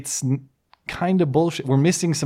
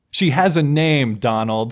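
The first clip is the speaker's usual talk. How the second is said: slow, emphatic mock rebuke, louder on the name; Hillary Clinton; 4 dB louder, slower than usual. Host mimics the candidate's debate line, mock rebuke. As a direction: lightly imitate a candidate scolding a rival. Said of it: "That's what Hillary got".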